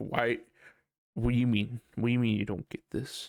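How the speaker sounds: mock, acted-out frustrated outburst. A speaker acts out how they react when frustrated, mock-frustrated outburst. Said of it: "if I get frustrated at a ten".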